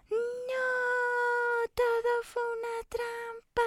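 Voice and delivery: high, dragged-out cry of dismay; high cookie voice, slow and horrified. Acted. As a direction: realize it was all a trap. Cookie realizes the trap.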